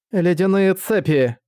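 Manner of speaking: slow, high spell call; shouted spell. Acted.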